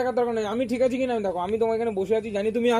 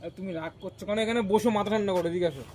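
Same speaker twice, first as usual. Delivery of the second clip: gently soothing; placating; 5 semitones lower than usual. Acted. Calming down angry friend.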